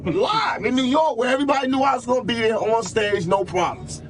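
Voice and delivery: fired up over the New York show; excited. Real, not acted. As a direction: shout it, proud and daring. Defiant boast about New York.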